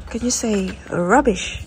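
slow, clear teaching voice. Shown as a demonstration. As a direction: model it slowly so a child can copy.

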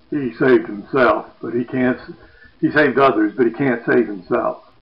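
loud taunting call; mocking cry. Onlookers taunting Jesus, loud mocking call. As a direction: jeer it across the crowd. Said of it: "They cry out".

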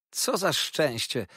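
high, drawn-out cry of delight; happy exclamation. A narrator's reading. Treadles rejoices at his friend's congratulations, happy exclamation. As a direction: exclaim slowly, savouring the joy. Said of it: "wołał Treadles".

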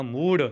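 loud, heavy pronunciation of ਮੂੜ. Shown as a demonstration. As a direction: lean hard on ਮੂੜ. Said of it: "ਭਾਰਾ ਉਚਾਰਨ ਕਰਨਾ".

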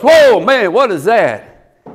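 startled, high-starting exclamation; acted alarm. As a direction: play a spooked onlooker. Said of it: "They were terrified".

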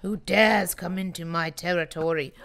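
a lightly voiced territorial lord, "Who dares?"; mock guardian. Player challenging mobs entering her land, lightly hammed-up. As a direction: play the offended ruler of the land, half-hearted.

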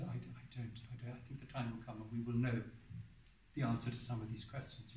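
soft, calm and hesitant; a mild, gentle reply; gently. Retold or imitated. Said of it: "He just said very gently".

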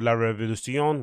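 La Révolution said with a Spanish accent. Real, not acted. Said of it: "saying it in a Spanish accent".

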